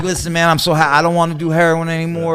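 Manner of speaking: high-pitched imitation of earnest pleading; eager newcomer plea. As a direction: play the hopeful new guy pleading his case. Acts out his eager newcomer self.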